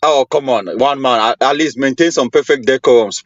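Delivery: ordinary talk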